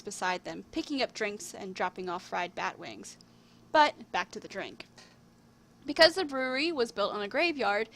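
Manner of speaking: measured storybook reading with lifted openings; story narration. A narrator's reading. Writer reading their own tale to viewers, storybook narration. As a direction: read it out like a fairy tale.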